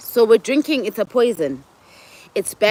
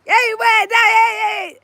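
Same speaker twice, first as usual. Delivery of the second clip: high, louder frustrated yell; frustrated shout; 13 semitones higher, 4 dB louder than usual. Retold or imitated. Frustrated guard shouting fans back from stage, high yell. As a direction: bark it like someone at the end of their rope. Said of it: "so frustrated going".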